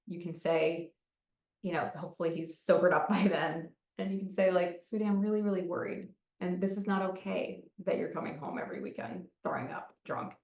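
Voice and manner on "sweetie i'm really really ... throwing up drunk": gentle worried parent, softening as it goes; calm, regulated concern. Acted. Parent approaching the kid next day, calm concern. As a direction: say it softly and steadily, without blame. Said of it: "in a more regulated state".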